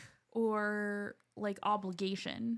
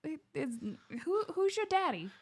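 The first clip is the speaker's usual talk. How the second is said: imitating a Southern lawyer's accent in court; Southern gentleman accent; 6 semitones higher than usual. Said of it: "he talked like this with this Southern gentleman".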